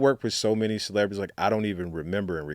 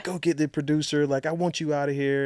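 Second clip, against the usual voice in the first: higher, put-on huffy voice; mock demanding celebrity; 8 semitones higher than usual. Celebrity orders the producer fetched, higher huffy mock voice. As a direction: play the diva ordering him out. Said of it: "she's like".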